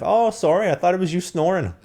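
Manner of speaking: high-pitched imitation of the annoyed roommate; mock roommate voice. Mimicking his roommate scolding him, high and squeaky. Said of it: "She's like".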